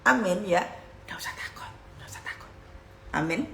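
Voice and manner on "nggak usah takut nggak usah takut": hushed, unvoiced whisper; whispered reassurance. Real, not acted. Preacher whispering comfort to the congregation, whispered.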